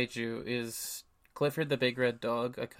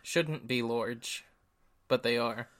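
put-on upper Midlands accent. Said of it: "why do you keep saying that with that".

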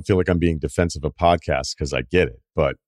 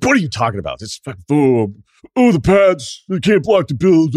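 high, whiny put-on voice of the friend; squeaky mock outrage about the pads; mock exasperated rant; 9 semitones higher, 5 dB louder than usual. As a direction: ham up his disbelief, pitched way up.

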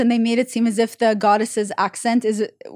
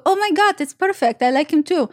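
put-on higher-pitched gushing in a rough Russian accent; Russian-sounding accent; 4 semitones higher than usual. Imitating the friend from Spain, mistakenly Russian-accented. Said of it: "Was she Russian?".

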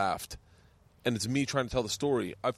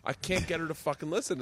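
raised-pitch venting, lightly acted; retold exasperation; 5 semitones higher than usual. Dad quoting his plea to his wife, mock exasperated. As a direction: complain like a helpless parent, retold.

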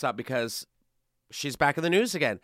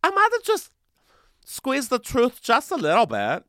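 high, sheepish mock confession; imitating Anna; 8 semitones higher, 4 dB louder than usual. A host mocking Anna's confession in a high coy voice. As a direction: squeeze the words out high and coy. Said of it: "now she's like".

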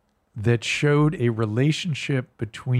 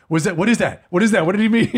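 put-on confused girlfriend; 7 semitones higher, 5 dB louder, faster than usual. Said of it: "she goes".

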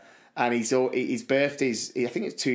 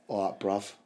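Cockney John; 5 semitones lower, 5 dB quieter than usual. Retold or imitated. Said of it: "I give Cockney John a bell".

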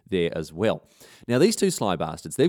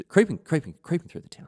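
high-pitched tiptoeing narration; light, stealthy storyteller voice; playful sneaking; 7 semitones higher than usual. A narrator's reading. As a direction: creep along on high, careful little words. Narrating Leo sneaking through town.

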